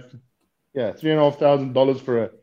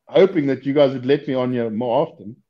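ordinary delivery

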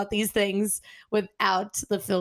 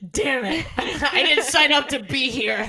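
lightly voiced grumble, slightly raised; exasperated professor; 3 semitones higher than usual. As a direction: laughingly imitate a fed-up professor. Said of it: "She's like".

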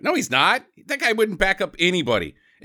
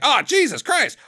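mock exasperation; 9 semitones higher than usual. Retold reaction to a dead body.

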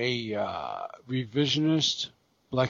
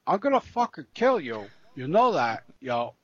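lightly voiced Chris Walken threat, pitched up in bursts; slight Walken-style lilt on a threat. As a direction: do a bit of a movie tough-guy impersonation. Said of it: "that was a little Chris Walken".

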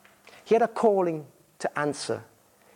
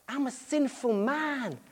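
contrite; 6 semitones higher, 6 dB quieter, slower than usual. Acted. Peter's confession after cry.

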